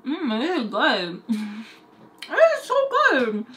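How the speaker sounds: put-on kids enjoying snacks. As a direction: savour it like a happy child. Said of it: "the kids are like".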